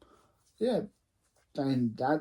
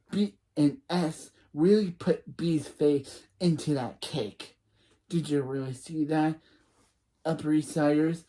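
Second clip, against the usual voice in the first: lightly voiced teasing narrator; Gossip Girl voice. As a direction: dish the gossip to the Upper East Side. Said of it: "use my Gossip Girl voice".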